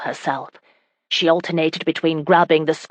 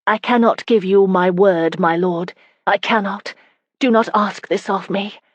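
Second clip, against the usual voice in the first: anguished; 4 semitones higher than usual. Acted. Wife pleading with her husband to spare her the promise, anguished. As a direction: beg him not to ask it, voice straining. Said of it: "the anguish in her voice".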